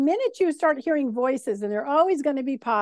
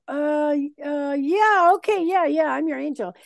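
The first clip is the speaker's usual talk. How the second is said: hesitant, then a raised, hurried yes; stall, then give in and play along; reluctant going along; 2 semitones higher than usual. Acted. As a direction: humour them after an awkward pause. Guides humouring a listener's question.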